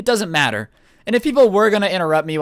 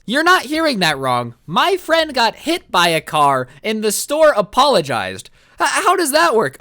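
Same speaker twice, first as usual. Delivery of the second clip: higher, slow, emphatic disbelief; incredulous outrage; 5 semitones higher, 4 dB louder, slower than usual. Real, not acted. Storyteller stunned that the store apologized, incredulous. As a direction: spell out the absurdity word by word, pitched up.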